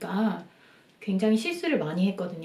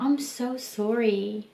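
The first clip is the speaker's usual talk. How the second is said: sympathetic sorry; 5 dB quieter, much slower than usual. Retold or imitated. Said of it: "라고 하는 거예요".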